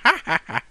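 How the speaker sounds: imitating her cackle, a touch of wicked witch; mock witch cackle. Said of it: "and she laughed".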